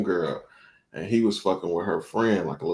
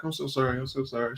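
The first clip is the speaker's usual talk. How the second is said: softer, higher apologetic aside; imitated hushed apology; 4 semitones higher, 9 dB quieter, faster than usual. Homegirl excusing her drunk friend, imitated soft apology. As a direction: quietly mimic her embarrassed apology.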